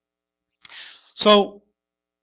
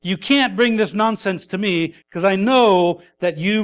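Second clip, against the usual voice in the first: mock loud retort; 2 semitones higher, 4 dB louder than usual. Preacher voicing Voddie scolding the man, loudly. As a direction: call the bluff with a hammed-up outburst. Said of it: "It's like".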